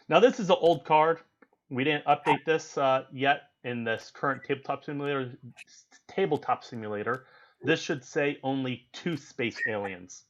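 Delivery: talking with a swollen tongue; just bit tongue. Real, not acted. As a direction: speak around a bitten tongue. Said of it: "I bit my tongue about an hour ago".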